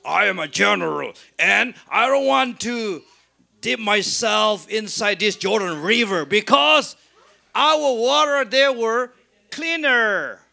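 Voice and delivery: mock proud general refusing an order. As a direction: act a touch haughty and self-important. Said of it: "because he was very proud".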